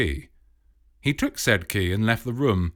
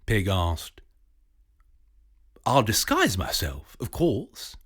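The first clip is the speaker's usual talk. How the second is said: a touch higher, scheming academic; lightly voiced professor; 5 semitones higher than usual. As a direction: lay out the plan like a sly don.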